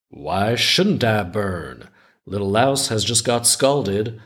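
measured folktale reading with lilting rises; story narration. A narrator's reading. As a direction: read it like a children's tale, lingering on phrase ends. Reads the folktale aloud.

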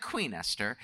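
low, soft, lightly British little queen; grand child queen with a touch of British; imitated British accent. Daughter in a crown answering her parents, mock British accent. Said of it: "talking eloquently, almost like a British accent".

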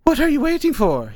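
put-on high, scornful old voice; scornful old woman. Hilda Dee scorning Ank for hesitating, high and scornful. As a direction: scold the dawdling pupil. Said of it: "Hilda Dee scorned".

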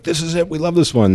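a mock-excited high burst, imitating his own past joy; excited discovery. To his co-founder, about a new brand name: mock excitement. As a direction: lightly replay the thrill of finding the perfect name.

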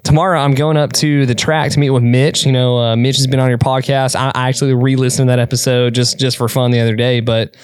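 imitated thick accent with a swinging tune; Jeff Cunningham's thick accent. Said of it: "sorry if this accent is bad".

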